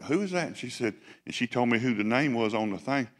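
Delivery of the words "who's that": high, mock-irritated who's that; mock annoyed. Preacher retelling a second early call, playfully irritated. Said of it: "and I'm like".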